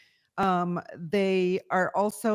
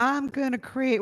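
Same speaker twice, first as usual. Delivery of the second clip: put-on Southern accent; 5 semitones higher than usual. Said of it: "Charmaine, you might".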